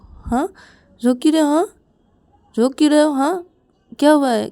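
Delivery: high, urgent motherly questioning; anxious, rising pleas to be told what's wrong; worried mother. Acted. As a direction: fuss over a crying child, insistent and loud. Mother questions her crying child.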